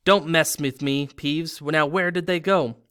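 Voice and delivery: loud threatening growl; angry threat. Acted. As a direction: warn him off, then demand. Filch threatening Peeves.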